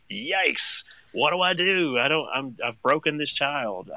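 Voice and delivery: high, slow, comic panic; mock panic. Dad recalling his first diaper scare, comic high panic. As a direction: play up the helpless new dad.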